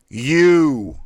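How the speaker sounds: "U" shouted high and loud, all air out; sharp thrust of U. Shown as a demonstration. Diaphragm exercise, coach blasting out U sharply. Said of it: "thrust out quickly and sharply".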